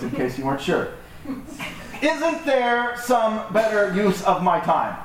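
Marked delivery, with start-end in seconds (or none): 2.0-5.0 slow, higher-pitched complaint; exaggerated put-upon protest, stretched out; mock resentment. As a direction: act out a drawn-out grumble of self-pity. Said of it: "there's this sense of resentment".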